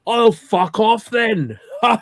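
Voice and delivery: loud, slow, laughing kiss-off; laughing retort. Retold or imitated. Telling the garage he'll leave, laughing loudly.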